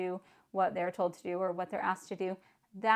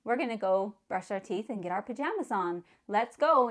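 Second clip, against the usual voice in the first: excited; 2 semitones higher than usual. Shown as a demonstration. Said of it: "to make it exciting and say".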